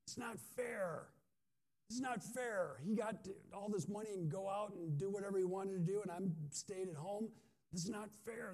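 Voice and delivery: high, aggrieved complaint; angry sulking son. Acted. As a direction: whine it like a wronged older son.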